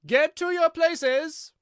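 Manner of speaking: very loud, high, drawn-out command; voice of thunder. A narrator's reading. Queen ordering everyone to places, thunderous shout. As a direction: thunder out the order, stretching each word. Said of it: "in a voice of thunder".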